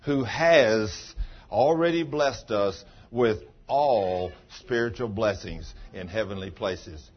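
slow, weighty recitation of the verse; preaching scripture. Acted. Pastor quotes Ephesians to the congregation, slow preaching. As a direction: proclaim it slowly like Paul.

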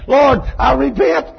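high, loud cry building to a desperate shout; screaming repentance. Retold or imitated. Woman in the church crying out her repentance, rising to a shout. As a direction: wail it out like a woman begging forgiveness. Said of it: "I hear another woman over here saying".

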